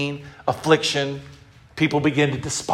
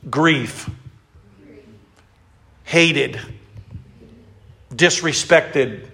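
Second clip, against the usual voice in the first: slow emphatic word; much slower than usual. Shown as a demonstration. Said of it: "So say these words with me".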